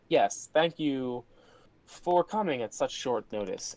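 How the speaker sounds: slow, lightly patronizing thanks; a touch of haughty hostess. Acted. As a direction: draw out the polite thanks with mild condescension. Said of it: "patronizing way".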